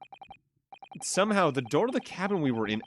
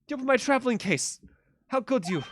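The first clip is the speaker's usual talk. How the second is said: higher, affronted in a put-on Russian accent; hammy Russian outrage over her case; Russian lady indignant; 9 semitones higher than usual. Russian passenger blaming the intruder, indignant. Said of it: "the Russian accent".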